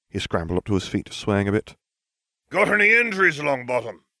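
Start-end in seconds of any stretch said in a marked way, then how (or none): 2.5-3.9 gruff barking, pitched high. Narrator reading a voice barking across the room at Longbottom, Moody's gruff bark. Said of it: "A gruff voice barked from across the room".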